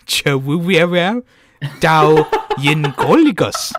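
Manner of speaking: "Chawuwiawa Dao Yingoligus" read slowly, laughing at his own guesswork; slow, laughing stab at Welsh words; mangled Welsh. Real, not acted. Host reading Welsh to friend, slow and laughing. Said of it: "This is brilliant".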